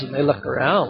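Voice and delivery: ordinary talk, nothing marked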